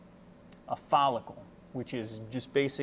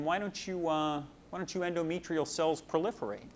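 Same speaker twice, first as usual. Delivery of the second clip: voicing estrogen; 3 semitones higher than usual. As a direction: coax the uterus along, pitched up. Estrogen voiced instructing the uterus.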